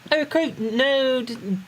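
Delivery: Cockney voice breaking into laughter; Tataru. Acted. Player fumbles Tataru's orders in Cockney, amused. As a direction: keep up the Cockney accent while starting to crack up. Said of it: "hard to do a Cockney accent".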